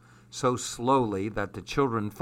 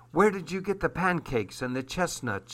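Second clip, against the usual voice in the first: mild suspicion; 5 semitones higher, 6 dB quieter than usual. Acted. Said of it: "her voice grew suspicious".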